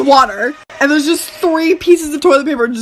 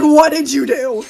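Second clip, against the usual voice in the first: a lower, flat what did you do; lower, dismayed homeowner; 4 semitones lower than usual. Retold or imitated. Homeowner seeing his flooded toilet, lower and dismayed. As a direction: drop the voice like an unimpressed owner.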